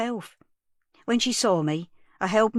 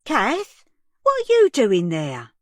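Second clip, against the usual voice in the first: loud, crying call through the glass; distraught young mother calling through the door, crying; tearful call; 4 semitones higher, 7 dB louder, slower than usual. Acted. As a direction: sob out the question, loud.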